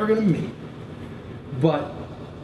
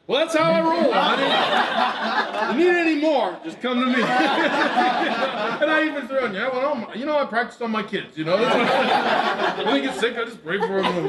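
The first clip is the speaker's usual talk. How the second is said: cocky laughing boast; 5 semitones higher than usual. Retold or imitated.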